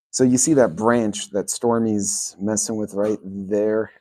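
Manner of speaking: normal talking voice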